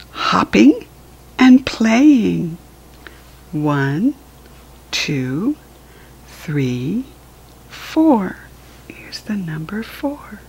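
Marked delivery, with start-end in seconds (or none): 3.5-10.4 soft hushed whisper. Acted. Parent reading to a small child, hushed whisper. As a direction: whisper it like a little secret.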